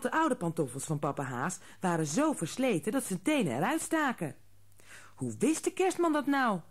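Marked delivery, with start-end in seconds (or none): 5.1-6.6 much higher, delighted father; happy. A narrator's reading. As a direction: marvel gleefully. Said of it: "zei papa Haas blij". (blije vader, veel hoger)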